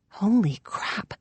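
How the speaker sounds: slow, hushed whisper of astonishment. A narrator's reading. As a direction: whisper it slowly, under the breath. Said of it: "I whispered".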